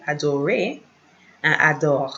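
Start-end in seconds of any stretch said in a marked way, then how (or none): 0.1-0.8 "adorer" ending in an "ay" sound; French "adorer" with its last syllable like "ay". Shown as a demonstration. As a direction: finish "adorer" on "ay", R silent. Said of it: "like A-Y".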